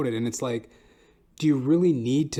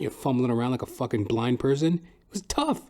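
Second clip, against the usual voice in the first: ordinary talk, nothing marked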